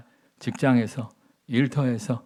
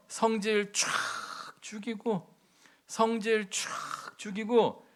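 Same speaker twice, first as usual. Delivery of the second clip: quiet humbled; 6 semitones higher, 6 dB quieter, slower than usual. Acted. Humbly swallowing his pride.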